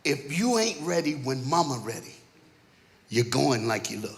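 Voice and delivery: understated fatherly warning, pitched low; dad's calm rule. Retold or imitated. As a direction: state the family rule quietly and firmly. Dad's saying, first quoted calmly.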